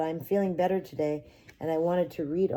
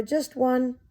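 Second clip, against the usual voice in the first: put-on pleading child; 9 semitones higher, 4 dB louder than usual. Child begs.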